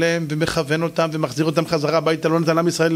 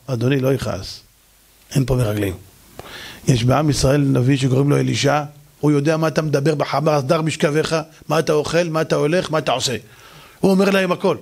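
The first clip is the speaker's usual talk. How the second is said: put-on servant girl; 4 semitones lower than usual. Servant girl calms the king.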